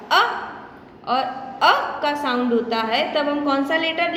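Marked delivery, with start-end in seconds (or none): 0.1-0.2 अ as a short "uh", standing alone; phonics letter sound. Shown as a demonstration. Teacher shows the sound of letter U, phonics sound. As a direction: sound out अ as one quick vowel. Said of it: "उसका sound आएगा".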